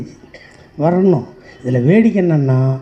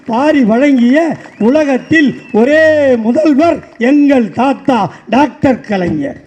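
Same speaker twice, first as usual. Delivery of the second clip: poem recitation; 3 semitones higher than usual. Acted. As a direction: recite it like a stage tribute, rising as it goes. Rhythmic recited tribute poem.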